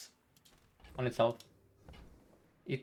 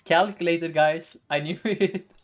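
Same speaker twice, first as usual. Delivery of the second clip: louder, laughing brag; gleeful gloating; 3 semitones higher, 4 dB louder, slower than usual. Real, not acted. Streamer boasting to viewers that the play was planned, gleeful gloating. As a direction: crow it through a laugh.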